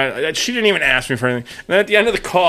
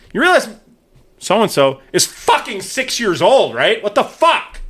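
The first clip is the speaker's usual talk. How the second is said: higher, slow, indignant scolding; retold angry scolding; 6 semitones higher, slower than usual. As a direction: lay into her, slow and incredulous. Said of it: "I say".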